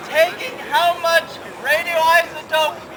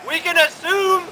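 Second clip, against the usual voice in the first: raised voice. Real, not acted. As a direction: raise your voice to be heard. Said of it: "Why are you yelling?".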